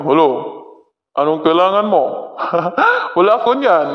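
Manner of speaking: like a man, through a voice changer; big voice effect. Shown as a demonstration. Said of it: "Ang laki ng boses ko naman dito".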